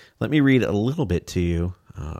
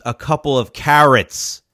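imitating the doctor; 5 semitones higher, 6 dB louder, slower than usual. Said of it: "He goes".

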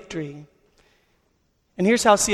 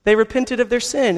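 excited good news; 5 semitones higher than usual. Retold or imitated. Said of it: "He finds".

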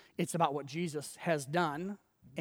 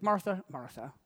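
gently repeated name; tender, gentle; 3 dB quieter than usual. Acted. Jesus answering a stressed Martha, tender and gentle. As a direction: say her name with soft affection. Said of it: "So tender, so gentle".

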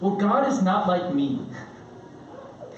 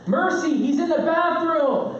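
mock household call; 8 semitones higher than usual. Acted call across house to child.

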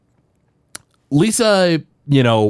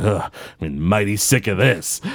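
put-on grumpy old Jasper; 5 semitones lower than usual. Jasper fed up with the happy thoughts, lightly grumbling. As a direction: sigh out your fed-up line like a cranky old man. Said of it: "He's like".

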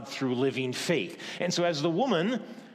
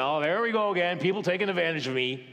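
exasperated; 4 semitones higher, faster than usual. Shown as a demonstration. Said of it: "It's not Jesus thinking".

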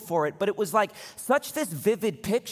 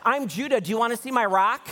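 lightly voiced proud little boy, higher pitch; proud kid; 6 semitones higher, 3 dB louder than usual. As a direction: imitate a proud kid introducing himself, pitch lifted a bit. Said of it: "loved it and was so proud of it".

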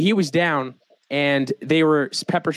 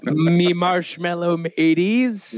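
pirate greeting; 2 semitones higher, much slower than usual. Pretend. Pirate-ish greeting bit.

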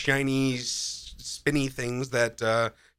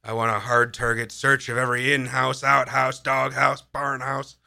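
punchy rhythmic list, each item hit hard; lightly hammed-up Southern-style command, louder as it rolls; movie-lawman routine; 5 dB louder than usual. Quoting The Fugitive's search order, lightly imitated lawman routine. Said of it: "slipping into, like, a singer's song".

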